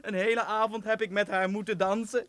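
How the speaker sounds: slow, gloating mock-prince voice; a sneering prince laughing at his dupe; mocking fake prince. Kaspar playing the wicked prince for Maartje, slow and gloating. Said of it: "die stem van doen".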